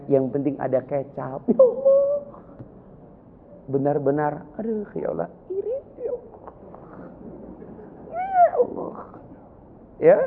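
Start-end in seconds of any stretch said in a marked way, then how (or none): 1.5-2.0 high, breaking cry; tearful cry. Real, not acted. Preacher moved to tears, high and breaking. 4.6-10.2 high, strained, breaking voice; choked crying. Real, not acted. Preacher envying simple life, high and tearful.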